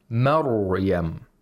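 "Maryam" with a thick, held r, no bounce; correct tajweed. Shown as a demonstration. Reciter restores the right reading after the wrong one, held ra. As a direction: draw out the r in "Maryam" straight into the y. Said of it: "He doesn't say Maryam".

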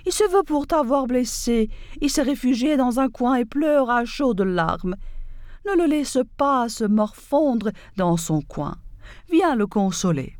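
lightly voiced, breezy and offhand; nonchalant fox. Fox smoothly reassuring the donkey, understated nonchalance. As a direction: shrug it off as if nothing happened. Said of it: "dit nonchalamment".

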